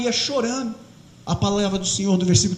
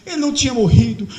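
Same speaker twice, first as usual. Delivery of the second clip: lightly desperate plea; 5 semitones higher than usual. Acted. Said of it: "Ela desesperada".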